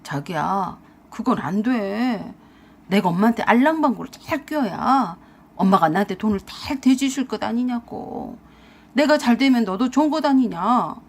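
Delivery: grovelling, whiny persuasion; wheedling plea. Acted. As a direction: plead with her, dragging the key words. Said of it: "제 앞에서 싹싹 빌면서 그랬어요".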